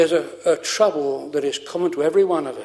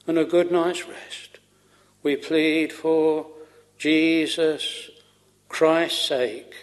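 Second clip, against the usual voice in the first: measured, solemn praying cadence; closing prayer. Real, not acted. Preacher asking the Lord's blessing on congregation, solemn prayer. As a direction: pray it aloud in deliberate phrases.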